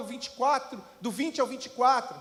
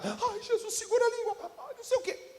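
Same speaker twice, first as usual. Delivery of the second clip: high, laughing panicked father; a father beside himself, pitched high; 8 semitones higher, 5 dB quieter than usual. Retold or imitated. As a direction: fret in a high voice over the fitting son. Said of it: "o pai devia estar".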